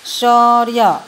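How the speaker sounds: शौर्य drawn out loudly, र sounded before य; pronunciation demo. Shown as a demonstration. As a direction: say शौर्य slowly and firmly so the र is heard before य. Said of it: "तो जब उच्चारण करते हैं".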